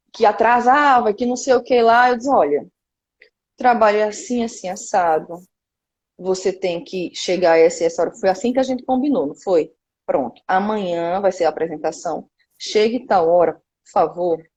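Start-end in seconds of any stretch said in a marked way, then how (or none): 2.3-8.1 low, measured instruction, retold; polite firm request. Producer telling a late musician the schedule, calm and polite. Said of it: "Mas pedindo, por favor". 10.1-14.4 low, calm, courteous reminder; polite request. Retold or imitated. Producer reminding a musician of tomorrow's call time, calm and polite. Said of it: "Mas pedindo, por favor".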